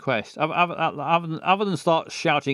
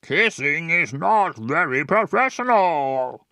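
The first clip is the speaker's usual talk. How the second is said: posh dad. Acted. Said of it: "was he posh?".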